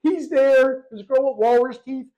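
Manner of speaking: loud, high voice choked by laughter; real laughing-to-tears delivery; cracking up. Real, not acted. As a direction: struggle to get the story out while in hysterics. Talking through his laughing fit.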